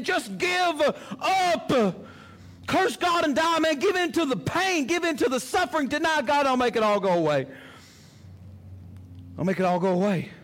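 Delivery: high, shouted urging; enemy's voice. Acted. Preacher voicing the enemy taunting the listener, high and shouting. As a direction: egg him on at the top of your voice. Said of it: "heard this same voice in our lives".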